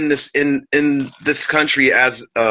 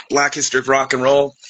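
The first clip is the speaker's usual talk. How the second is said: chewing; faster than usual. Real, not acted. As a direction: mouth full of licorice. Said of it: "Sorry, I'm chewing my licorice root".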